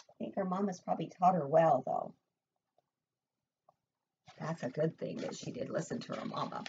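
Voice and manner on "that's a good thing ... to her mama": whisper. Real, not acted. Soft aside to child.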